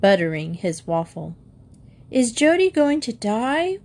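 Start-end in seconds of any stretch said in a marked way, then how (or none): 2.1-3.8 put-on high, rising little-girl question; mild wail. Five-year-old Linda asks whether Jody will die, wailing. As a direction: pipe it up high, a worried small child. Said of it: "wailed Linda".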